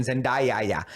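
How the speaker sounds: jokey "Zendaya. Yeah." run together as Zen-die-ya-ya; mock name mispronunciation. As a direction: stretch "Zendaya. Yeah." into one name with a doubled ya ending. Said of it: "she had two Y's at the end".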